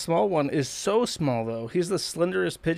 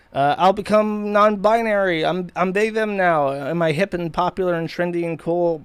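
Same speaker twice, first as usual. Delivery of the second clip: mocking trendy voice; 4 semitones higher, 6 dB louder than usual. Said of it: "this lonely guy who was like".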